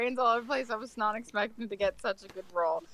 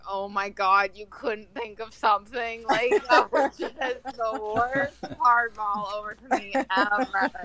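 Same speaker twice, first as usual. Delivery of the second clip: laughing exasperation; 3 dB louder than usual. Retold or imitated. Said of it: "being like".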